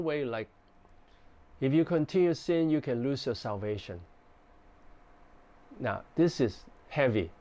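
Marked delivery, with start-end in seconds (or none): 1.6-4.0 gentle pastoral warning. Shown as a demonstration. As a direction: warn them kindly, like a caring pastor. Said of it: "but I say in a gentle tone".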